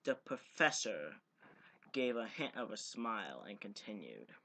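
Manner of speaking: steady reading-aloud voice; story narration. Acted. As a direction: read the chapter like an audiobook. Reads novel aloud.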